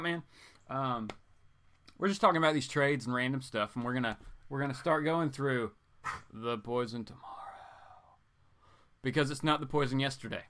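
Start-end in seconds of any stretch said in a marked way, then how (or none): 6.3-7.2 whispered title, like a teaser; dramatic whisper. Acted. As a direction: breathe the title as a secret. Teasing title of next read.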